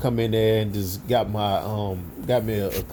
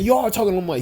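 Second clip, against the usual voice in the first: pitched-up disbelieving voice; high incredulous retort; 10 semitones higher, faster than usual. Retold or imitated. Confused coworker objects to the brother, high.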